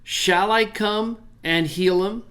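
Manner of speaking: "I" lifted, rising at the end; slow asking tune; question reading. Shown as a demonstration. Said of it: "They turned it into a question".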